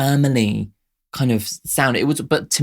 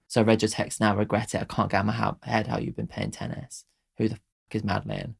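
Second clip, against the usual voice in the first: soft recitation of song lyrics, getting softer towards the end; reading lyrics aloud; 4 dB quieter than usual. Acted. Vlogger reads the song's lyrics to her viewers, softly recited. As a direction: read the lyrics quietly, as if to yourself.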